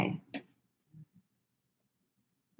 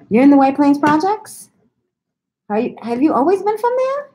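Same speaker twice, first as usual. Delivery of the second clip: high, louder gasp of surprise; high excited disbelief; shocked gasp; 10 semitones higher, 3 dB louder than usual. Real, not acted. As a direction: gasp and ask, amazed. Gasps at viewer's hometown.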